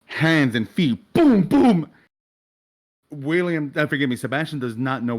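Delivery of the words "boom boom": two loud, high booms; imitated impact booms. Narrator voicing Auburn's hands and feet hitting, imitated booms. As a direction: punch out each boom like a blow landing.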